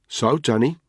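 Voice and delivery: menacing whisper; dangerous whispered edge. Acted. Tony turns on Danny, a dangerous whisper. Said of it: "dangerous edge to his voice".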